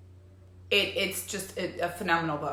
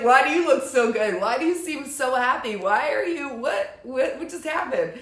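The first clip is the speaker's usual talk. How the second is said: amazed gushing; 6 semitones higher, 5 dB louder than usual. Retold or imitated. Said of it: "they're gonna be like".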